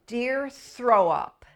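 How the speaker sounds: put-on slow, high and loud child reading; child's letter voice. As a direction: read it out like a little kid. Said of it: "He wrote".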